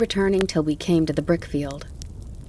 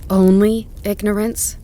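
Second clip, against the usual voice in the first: louder, higher indignant cry; startling outburst; 4 semitones higher, 6 dB louder than usual. A narrator's reading. John retorting to Tom, loud startled outrage. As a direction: burst out in disbelief at the phrase. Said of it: "John's voice almost startled me".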